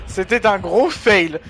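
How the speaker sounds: high, loud and slow through real laughter; laughing at a fail. Real, not acted. Streamer laughing at a teammate's failed play, loud and high. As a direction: crack up and drag the words out.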